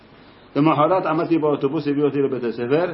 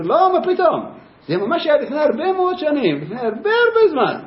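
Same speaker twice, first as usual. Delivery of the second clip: laughing explanation; 12 semitones higher than usual. Retold or imitated.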